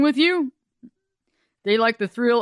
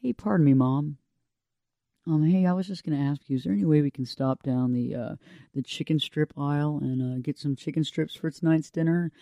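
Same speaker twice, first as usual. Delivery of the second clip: put-on polite child; 5 semitones lower, 6 dB quieter than usual. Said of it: "They don't sit there and go".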